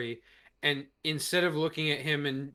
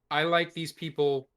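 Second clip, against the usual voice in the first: ordinary talk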